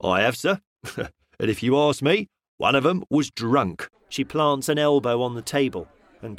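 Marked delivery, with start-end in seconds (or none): 0.0-3.9 amused, with a chuckle in it; chuckling policeman. Acted. Policeman tells the man about the drunk clergymen, chuckling. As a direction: chuckle through it. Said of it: "began to chuckle heavily".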